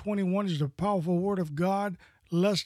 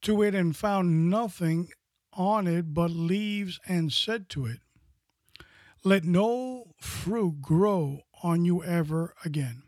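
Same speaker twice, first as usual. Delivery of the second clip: scripture reading. Acted. Reads scripture passage.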